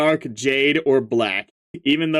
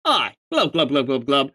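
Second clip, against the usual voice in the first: gurgling fish man croak. Acted. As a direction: bubble out each glub. Fish troll speaks in glubs.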